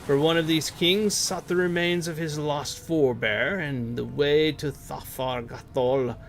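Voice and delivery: measured storybook read of the quest text. Acted. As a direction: read it like a dwarf's tale, unhurried. Reads quest text aloud.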